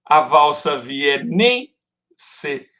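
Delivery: slow scansion, lift "nem" and let "se" fall away; stress on strong syllable. Shown as a demonstration. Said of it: "eu conto até a sílaba forte".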